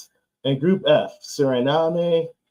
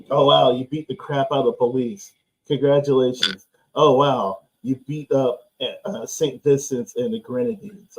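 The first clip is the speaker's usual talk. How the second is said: sarcastic. Retold or imitated. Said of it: "the sarcasm".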